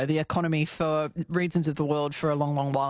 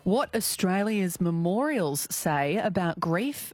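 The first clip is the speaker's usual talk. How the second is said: radio host read. Real, not acted. Radio host links to news.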